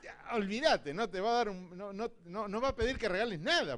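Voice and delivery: loud, high, forceful sermon voice; fiery preaching. Real, not acted. Pastor preaches that Satan is stingy, loud and fiery. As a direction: shout it out to the whole church.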